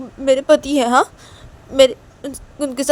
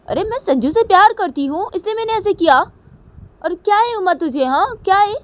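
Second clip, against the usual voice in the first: higher, brazen and challenging; a higher, defiant "so what?" voice; defiant sister; 4 semitones higher than usual. Acted. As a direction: throw the questions back at her. Guilty sister defiant, demanding.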